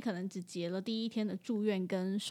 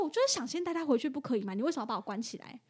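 retold angry demand; 3 semitones higher, much faster than usual. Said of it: "他就很生气哦".

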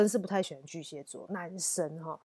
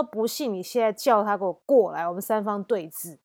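retold defiant comeback, somewhat louder; loud retort; 2 semitones higher, 4 dB louder than usual. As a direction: push back at her, challenging. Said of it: "很大声呛回去".

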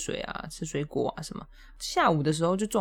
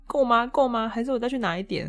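eager boss; 6 semitones higher than usual. Retold or imitated. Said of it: "他还跟我说".

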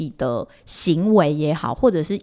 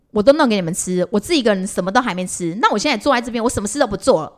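转述的气话; 2 semitones higher, 3 dB louder, faster than usual. Retold or imitated. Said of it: "一开始我还是有点不能冷静".

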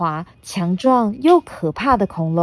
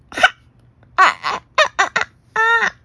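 pained wailing; 13 semitones higher, 5 dB louder than usual. Acted. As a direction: wail as if teeth just broke. T-rex breaks his teeth.

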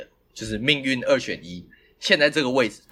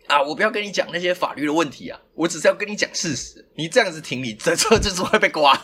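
higher, mildly insistent retold warning; dead certain, retold; 5 semitones higher than usual. Driver imitates the auntie warning him, dead certain. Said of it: "欸，他很笃定".

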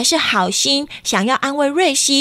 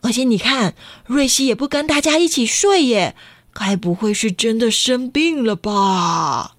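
worried father. Acted. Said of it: "爸爸很担心地说".

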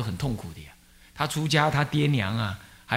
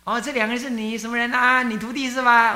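gentle elder; 8 semitones higher than usual. Retold or imitated. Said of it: "忏公就如清凉地跟你讲".

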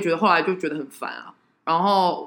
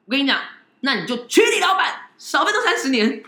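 pushy excited advice; 8 semitones higher, 5 dB louder than usual. Retold or imitated.

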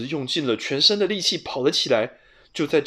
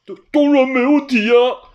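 high, loud stammered bravado; pretending to be sure; flustered bluff; 9 semitones higher, 8 dB louder than usual. A narrator's reading. (结结巴巴地逞强)

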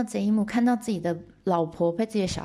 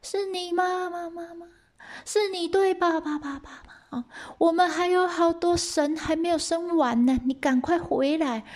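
high-pitched calling with mock echoes; husband's high, drawn-out call; echoing cave call; 11 semitones higher than usual. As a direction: plead across a hollow cave, stretching the words. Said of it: "有回音哦".

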